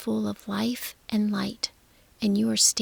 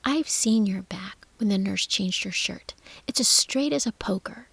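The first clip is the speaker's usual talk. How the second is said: angry retort; 4 dB louder than usual. Acted. Mary angry at Colin.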